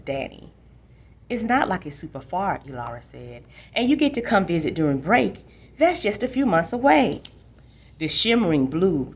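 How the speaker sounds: steady read-aloud storytelling voice; story narration. A narrator's reading. Librarian reading a chapter aloud to listeners, in storytelling voice.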